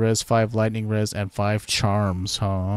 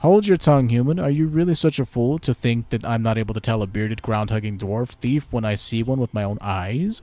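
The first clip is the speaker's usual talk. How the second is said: haughty elf, a touch louder; elf ambassador; 2 semitones higher, 4 dB louder than usual. Pretend. Elven ambassador greets the new Lord Protector, haughty. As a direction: greet the human with lofty pride.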